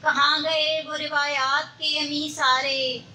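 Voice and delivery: measured Urdu mushaira recital; poetry recitation. Acted. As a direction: recite verse in long, even phrases.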